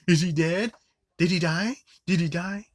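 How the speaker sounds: high, loud mocking squeal; mock panicked yelling again. Reviewer repeats the girl's line, loud mock yell. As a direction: shriek it like an idiot.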